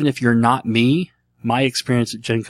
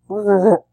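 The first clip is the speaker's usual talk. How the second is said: failed Chewbacca roar; 9 semitones higher, 4 dB louder than usual. Pretend. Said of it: "sounding like Kermit the Frog".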